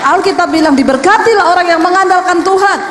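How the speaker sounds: scripture proclaimed high and loud; preaching loudly. Real, not acted. Preacher proclaiming the Bible verse to the congregation, loud and high. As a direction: ring it out like a pulpit proclamation.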